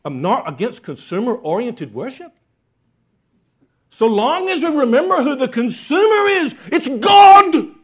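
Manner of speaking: put-on Scottish accent rising to a shout on the final words; Eric Alexander Scottish accent. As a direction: proclaim it like a fiery Scottish preacher. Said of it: "I can't say it without a Scottish accent".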